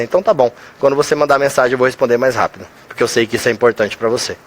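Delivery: reassuring. Acted. Calming an angry person with a promise, reassuring. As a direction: settle it calmly, voice dropping low. Acted reply settling a conflict.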